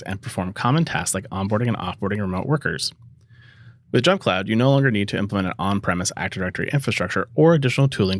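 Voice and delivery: smooth sponsor read. Acted. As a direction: read the ad like a host promo.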